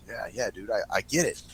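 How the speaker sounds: low, soft, easygoing reassurance; retold placating. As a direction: placate him quietly, voice dropped. Retold placating of apologizing owner.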